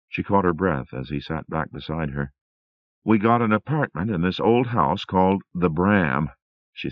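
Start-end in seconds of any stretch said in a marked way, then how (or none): 3.0-6.3 put-on higher, louder young woman recounting a dream; a lightly voiced wife, still shaken; Rosemary voice. Rosemary telling her husband about the dream building, higher and louder.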